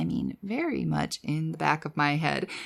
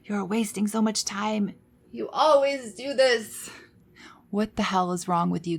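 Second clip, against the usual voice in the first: mock rageful scolding; 3 semitones higher than usual. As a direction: berate yourself in a put-on rage, without real shouting. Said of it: "screaming, rageful, angry voice that would say".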